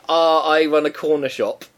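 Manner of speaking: lightly put-on Pakistani accent, drawn out; slow mock Pakistani-accented English. Podcaster giving an example of mimicry, light Pakistani accent. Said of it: "speaking in English in a Pakistani accent".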